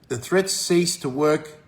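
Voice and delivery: slowed right down, each word leaned on; drawn-out emphasis; slow emphatic repeat. Shown as a demonstration. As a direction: drive the point home slowly. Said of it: "And the threats cease to work".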